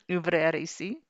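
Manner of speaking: put-on Parisian French accent, like dad reading the cereal box. Dad reading the cereal box label for his kid, in a Parisian French accent. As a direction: say "Ouvrir ici" the Parisian way, as dad did. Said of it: "in a Parisian accent".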